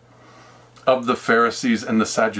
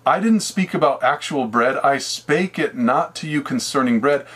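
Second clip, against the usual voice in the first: solemn scripture voice. Acted. Jesus explains in scripture words.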